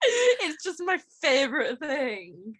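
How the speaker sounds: slow, high, laughing words. Real, not acted. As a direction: gush through laughter. Laughing after drunk quote.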